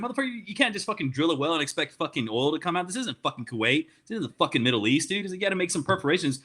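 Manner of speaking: retelling a heated argument; retold indignation. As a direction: lecture him in mock exasperation. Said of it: "low-key kinda fucking pissed off".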